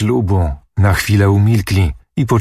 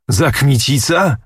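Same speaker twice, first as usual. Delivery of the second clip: higher, sneering repeat of the name; scornful echo; 5 semitones higher than usual. A narrator's reading. Prince mocks uncle's choice of Kmicic, sneering. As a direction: throw the name back with contempt.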